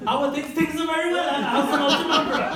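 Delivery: high, loud mock British small talk; hammed-up colonial politeness; stiff posh accent. Posh Indians make small talk in mock British. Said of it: "mid-conversation".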